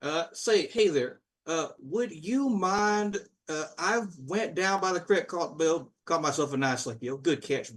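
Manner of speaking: a shy rural angler asking a favor; lightly voiced bumbling fisherman; folksy fisherman. NPC fisherman asks a favor.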